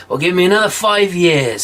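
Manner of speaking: put-on crafty old smith bargaining; sly bargaining. John bargaining with the devil, sly. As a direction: drive a hard bargain slyly. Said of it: "said Wicked John".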